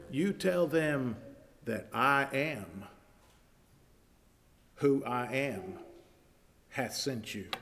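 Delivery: God calmly answering Moses; solemn voice of God. Acted.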